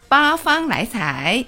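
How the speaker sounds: 八方来财 said in Cantonese tones; Cantonese pronunciation. Shown as a demonstration. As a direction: demo 八方来财 in clear Cantonese. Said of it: "示范一遍吧".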